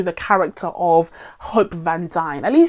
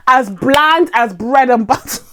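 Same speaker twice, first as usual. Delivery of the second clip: BLAND hit louder and stretched, slowed right down; emphatic repeat; 3 semitones higher, 3 dB louder than usual. Real, not acted. Reviewer hammering home her verdict on the actress, emphatic repeat. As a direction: drag out "bland" with exasperated punch.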